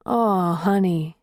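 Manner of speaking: put-on a gentle, slow comfort to a crying girlfriend; sweetly. A narrator's reading. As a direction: boyfriend soothing her on the phone, tender and slow. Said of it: "he said so sweetly".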